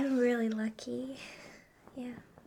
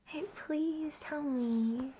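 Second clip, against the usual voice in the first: usual speaking voice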